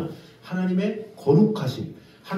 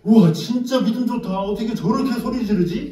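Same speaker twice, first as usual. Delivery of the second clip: louder, amazed exclamation; amazed onlooker; 5 semitones higher, 4 dB louder than usual. Retold or imitated. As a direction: gasp in admiration. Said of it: "그럼 주위에는".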